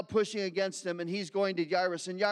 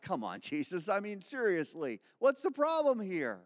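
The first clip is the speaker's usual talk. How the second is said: laughing sarcasm, rising at the end; sarcastic. Acted. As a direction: tease him with a scoff. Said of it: "they're sarcastically like".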